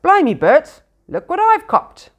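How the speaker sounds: loud, high rough troll cry. A narrator's reading. William the troll shouts to Bert about his catch, loud troll voice. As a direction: crow over the catch like a brute. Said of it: "said William".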